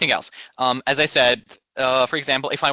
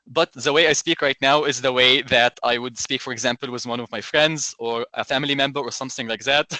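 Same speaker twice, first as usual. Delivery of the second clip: Egyptian accent. Shown as a demonstration. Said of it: "I will demonstrate a very good example".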